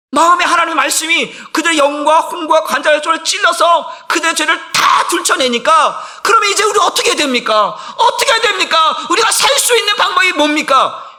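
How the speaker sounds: loud, high, pleading sermon shout; fiery preaching. Acted. Pastor voicing the convicted crowd to the church, in a loud pleading shout. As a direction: cry out the crowd's desperate question.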